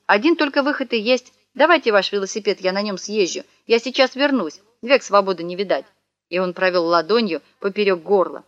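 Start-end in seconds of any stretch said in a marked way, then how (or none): 0.1-5.8 businesslike. Acted. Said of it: "деловитым голосом".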